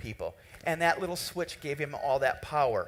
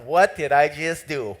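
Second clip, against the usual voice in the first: alarmed; 2 semitones lower, 9 dB louder than usual. Retold or imitated. Retold panic at Brian's sobbing.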